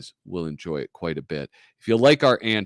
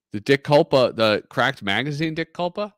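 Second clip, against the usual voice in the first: surprised recognition; 5 semitones higher, 4 dB louder than usual. Real, not acted. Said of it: "Dick Culpa was also the editor".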